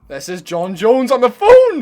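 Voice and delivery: booming, slow announcement; loud announcement. Acted. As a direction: shout out who's calling. Announcing the caller loudly.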